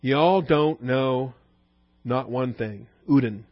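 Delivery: slow, drawn-out scornful put-down; prideful superiority. Shown as a demonstration. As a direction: stretch it out like a haughty know-it-all. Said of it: "Communicates strongly the prideful superiority".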